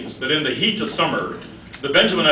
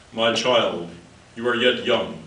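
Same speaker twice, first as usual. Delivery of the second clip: lower, measured mock-wise mother; a hint of motherly counsel in a lower voice; lightly voiced mother; 5 semitones lower, 3 dB quieter than usual. Mother counselling her lovestruck daughter, lightly voiced, lower.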